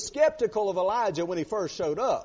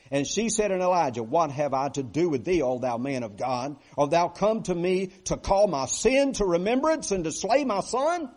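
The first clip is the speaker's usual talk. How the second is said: louder bitter reproach rising at the end; bitter accusation; 5 dB louder than usual. Acted. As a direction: hurl the blame at the man of God. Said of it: "this is a bitter, bitter statement".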